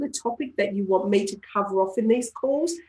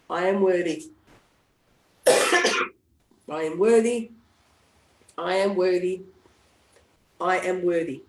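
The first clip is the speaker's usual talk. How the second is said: tapping session affirmations; affirmation script; 3 semitones lower than usual. Shown as a demonstration. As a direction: lead the group through affirmations. Tapping on worthiness.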